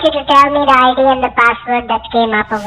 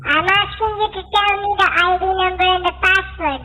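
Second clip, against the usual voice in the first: altered voice; 5 semitones higher, 4 dB quieter than usual. Real, not acted. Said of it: "It sounds like that Donald Duck to me here".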